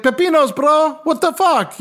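high, incredulous correction; mock exasperation. Cook corrects his coworker's Spanish, high and incredulous. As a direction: squeak out disbelief at him. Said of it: "I'd just be like".

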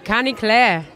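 tentative imitation of Irish speech; Irish accent. Shown as a demonstration. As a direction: repeat it in a light Irish accent. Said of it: "can you do an Irish accent".

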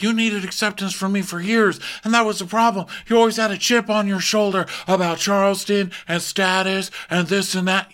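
high mocking voice as Shep; podcast host mimicking a castmate, high and mocking. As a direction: sneer it like a smug friend. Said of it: "Shep's like".

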